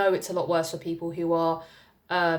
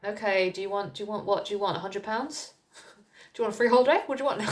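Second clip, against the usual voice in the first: exasperated mock offer; 3 semitones higher, faster than usual. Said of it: "I'm just like".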